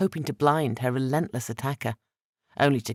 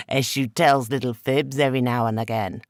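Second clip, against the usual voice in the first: laughing; 4 dB louder than usual. Acted. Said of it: "said the lower with a laugh".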